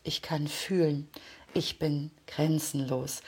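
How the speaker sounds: slow, soft affirmations spoken to yourself; quiet, slow, earnest self-affirmation; affirmation demo. Shown as a demonstration. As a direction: say each line slowly as if you truly believe it. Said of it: "du hast es gerade an meiner Stimme gehört".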